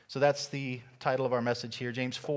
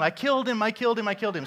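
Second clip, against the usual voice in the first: mock panicked yelling; 7 semitones higher, 3 dB louder, faster than usual. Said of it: "he starts yelling and running around".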